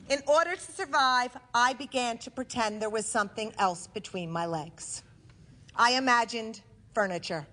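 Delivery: deliberate stage delivery with measured pauses; comic storytelling to a live audience; theatrical monologue. Acted. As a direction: punch key words, then pause for the laugh.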